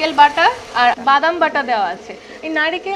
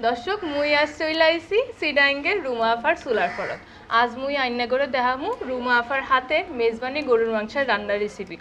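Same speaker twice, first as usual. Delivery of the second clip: speaking the Chittagong dialect; Chittagong Bengali accent; 4 dB quieter than usual. Pretend. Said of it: "কি আফা, আমার ভাষা হয়েছে তো?".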